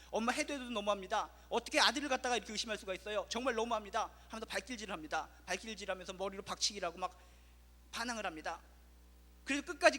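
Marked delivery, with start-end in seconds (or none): 0.1-4.1 억울해서 엄마에게 소리 지르는 아이 흉내; 너무하다고 큰 소리로 대들듯; 화내며 소리치는 아이. Retold or imitated. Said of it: "소리를 갖다 지르면서 화를 내기". (의심받은 아들이 엄마에게 대들며, 화난 고함)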